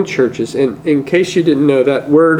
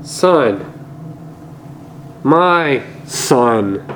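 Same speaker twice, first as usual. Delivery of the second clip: tender; 2 semitones lower, 7 dB quieter, much slower than usual. Acted. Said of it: "What a tender address".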